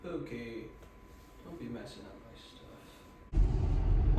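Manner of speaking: loud, slow, breathy scold at the cat; slow, loud warning to a pet. Real, not acted.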